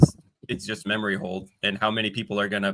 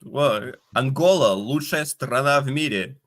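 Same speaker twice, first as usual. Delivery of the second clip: thicker Russian accent; 3 semitones higher than usual. Shown as a demonstration. Host redoing the line in a thicker Russian accent. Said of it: "My Russian accent is pretty good".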